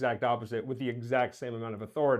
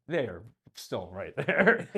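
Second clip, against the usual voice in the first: slow, deliberate mock reproach; Henry Jaglom; 4 semitones lower, slower than usual. Companion warning that they are within earshot, slow mock reproach. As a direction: spell it out slowly, word by word. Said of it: "And Henry's like".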